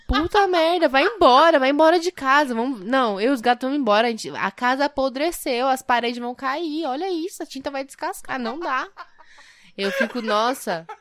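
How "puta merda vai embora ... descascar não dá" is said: higher, hammed-up dramatic complaint; exaggerated outrage. Wife telling Luiz to leave the house, hammed-up. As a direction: overact the horror of the smell. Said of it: "eu sou muito exagerada".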